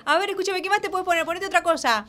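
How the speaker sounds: zero gravity voice. Acted. Continues floaty high voice.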